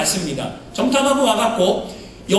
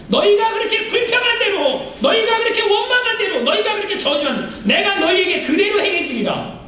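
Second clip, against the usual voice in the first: stern divine judgment; 10 semitones higher than usual. Retold or imitated. Preacher voicing God condemning the grumbling people, stern. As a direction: pronounce the sentence with force.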